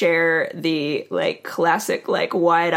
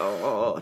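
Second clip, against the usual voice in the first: shaky sigh; 8 semitones lower, 5 dB quieter than usual. Retold or imitated. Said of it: "just shaking".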